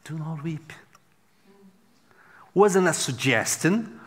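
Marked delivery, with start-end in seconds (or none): 0.0-0.7 heavenly command. Retold or imitated. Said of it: "And the phrase was".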